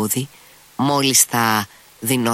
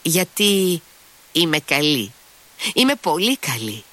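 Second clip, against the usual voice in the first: Grushenka's tipsy babble, lightly raised; tipsy babbling; 6 semitones higher than usual. A narrator's reading. Drunk woman babbling to her lover, murmuring. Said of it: "Έτσι ψέλιζε η Γκρούσεκνα".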